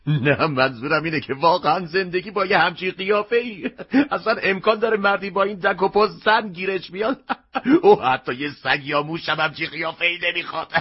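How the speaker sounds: words broken by a burst of laughter; mocking and laughing at once. Customer mocks the mask's ugly face, laughing. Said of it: "مشتری از خنده به گریه افتاد".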